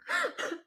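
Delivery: imitated hammed-up crying sound; high-pitched mock sob. Host mimics woman's overacted crying, mock sob. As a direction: fake wailing gasp. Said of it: "parang hinahalay".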